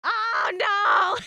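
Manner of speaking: mock dismay. Real, not acted. Emote slots overflow.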